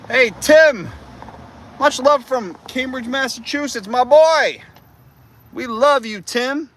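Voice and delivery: very high, loud cartoonish voice; shout-outs in a squeaky falsetto; high-pitched silly shout-out to Tim; squeaky greeting.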